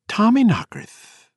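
high slow chiming doll voice; chiming, echoing voice. Acted. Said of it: "lisped in a chiming, echoing voice".

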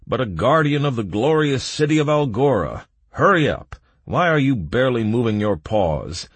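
loud, high, impatient order; guard's shout. A narrator's reading. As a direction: shout it with authority. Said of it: "shouted the guard".

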